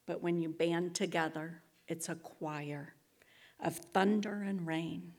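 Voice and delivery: measured reading with long pauses; spoken-word verse to close a speech; poetic recitation. Acted. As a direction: recite the lyric line by line, deliberately. Recites song lyrics as closing.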